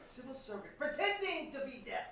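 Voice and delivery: scandalized. Acted. Father keeps berating the guest.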